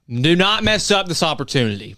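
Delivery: impassioned plea; fired up. Real, not acted. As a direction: urge them like a fired-up fan. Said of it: "I'm kinda fired up".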